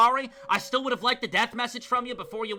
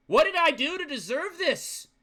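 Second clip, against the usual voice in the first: higher, anguished question; despairing plea; 6 semitones higher than usual. Acted. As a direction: cry out why, broken.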